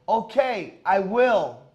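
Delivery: meek Chris Rock. Retold or imitated. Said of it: "Chris Rock leaned and said".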